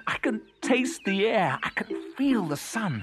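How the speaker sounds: high, exultant cuckoo voice; joyful. A narrator's reading. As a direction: proclaim each line with mounting delight. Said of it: "he sang joyfully".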